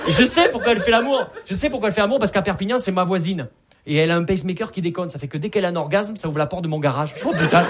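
loud, high-pitched outburst; exasperated comic rant. Acted. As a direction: shout it as a fed-up neighbour's complaint. Comic exasperated rant about grandmother's neighbour.

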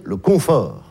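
slow "confort", CON clearly set out; stress on first syllable. Shown as a demonstration. Comedian naming the hoarding habit, first syllable stressed. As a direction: draw out "confort", marking its opening con. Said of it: "la première syllabe est très claire".

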